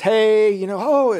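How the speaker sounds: cheery physical therapist greeting a patient, upbeat and loud. Retold or imitated. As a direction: imitate a chirpy therapist bursting in. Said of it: "she's all upbeat".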